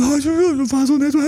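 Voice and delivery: high, whiny poor-me voice; mock victim. Coach mocks playing the victim to a partner, whiny. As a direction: put on a hammed-up victim whine. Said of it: "Nicht das Opfer raushängen lassen".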